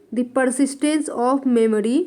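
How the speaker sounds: The Persistence of Memory stretched out word by word; very slow, deliberate title dictation. Shown as a demonstration. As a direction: dictate it slowly, twice, for notes. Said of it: "में लिख रही हूँ".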